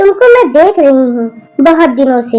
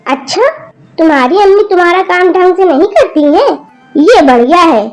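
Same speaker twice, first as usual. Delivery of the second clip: scolding grandmother. Acted. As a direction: tell off the rude granddaughter. Grandmother's long angry scolding. (पोती को गुस्से में डांटती दादी)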